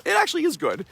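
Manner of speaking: ACTUALLY jumps way up, pitched high over the rest; insisting. Retold or imitated. Telling Sally the ripped lines are good, high insisting. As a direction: lean hard on ACTUALLY with a high leap.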